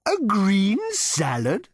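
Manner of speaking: a cow appalled at the order; disapproving cow. A narrator's reading. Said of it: "rolling his eyes disapprovingly".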